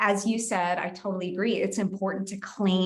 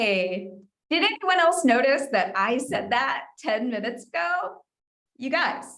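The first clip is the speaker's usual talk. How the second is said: playful, light joking tone, pitched up; 5 semitones higher than usual. Demonstrating a non-defensive way to claim credit for an idea, smiling, joking tone. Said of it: "I'm smiling, I'm kind of making a joke out of it".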